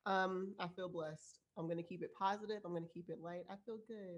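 blocked nose, speaking through congestion; stuffy nose. Real, not acted. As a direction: talk like you have a head cold. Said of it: "I sound a little stuffy".

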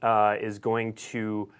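slowing down and losing the thread; trailing off. Real, not acted. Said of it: "I forgot what I was saying".

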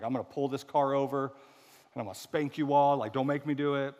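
hammed-up dad scolding from the driver's seat; mock parent threat. Jesus warning his bickering disciples, mock fed-up parent threat. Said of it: "you just imagine that".

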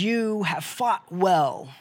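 Jesus honouring his tired fighters; measured proclamation; Jesus speaking. Acted. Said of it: "he looks at us and says".

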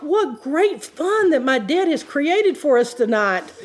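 slow, laughing mock delight; laughing sarcasm. Laughing while telling the church about dad's game. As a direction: giggle through the fake cheer.

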